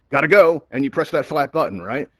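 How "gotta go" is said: hasty exit. Pretend. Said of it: "you'd be like".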